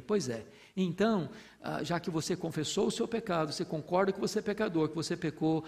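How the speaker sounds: softly voiced God forgiving a sinner; gentle voice of God. God voiced answering believer.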